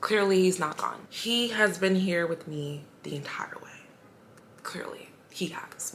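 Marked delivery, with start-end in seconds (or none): 1.1-5.9 whispered, choked with real emotion; tearful whisper. Real, not acted. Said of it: "I get teary-eyed".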